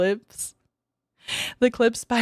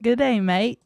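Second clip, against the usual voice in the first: mock Aussie greeting; 3 semitones higher than usual. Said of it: "he said it right there in chat".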